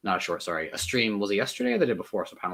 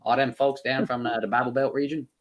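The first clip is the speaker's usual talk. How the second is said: put-on Bible Belt accent; southern accent. Shown as a demonstration. Streamer demonstrating his southern accent for guests, Bible Belt accent. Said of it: "the southern accent".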